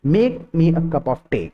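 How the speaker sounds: very slow, each word set apart for learners to repeat; slow model sentence. Shown as a demonstration. Teacher modelling a phrase for Hindi learners, very slow. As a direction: say it slowly so students can copy. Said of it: "इसको एक बार repeat करो मेरे साथ".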